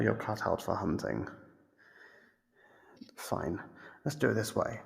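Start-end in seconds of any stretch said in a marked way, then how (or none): 3.2-3.6 soft, low whispered give-in; resigned whisper. Acted. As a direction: let it out like a sigh. Captor gives up the game.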